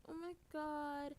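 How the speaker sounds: high, slow drama-queen "Oh my God"; high, drawn-out mock "Oh my God"; mock dramatic gasp. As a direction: overplay her shock. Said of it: "she's like".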